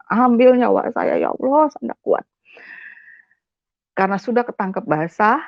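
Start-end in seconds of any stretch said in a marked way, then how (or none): 0.1-2.2 retold desperate prayer, rising higher; mildly wailed plea; tearful plea. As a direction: beg God with a touch of weeping. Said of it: "di kamar mandi saya menangis".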